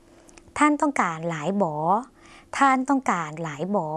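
slow Lao model question; unhurried language-teacher demonstration; slow repeat-after-me. Shown as a demonstration. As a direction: say it slowly for learners to copy. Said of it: "ถ้าอยากออกเสียงไปพร้อมกันก็ได้นะคะ".

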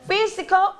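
Physical said high and loud; loud model. Shown as a demonstration. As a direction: call Physical out to the class. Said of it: "ไปตัว E ค่ะ".

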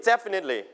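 Definitely as a model for a class to echo; teacher's drill delivery of Definitely; model pronunciation. Shown as a demonstration. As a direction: say Definitely clearly for repetition. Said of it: "repeat after me".

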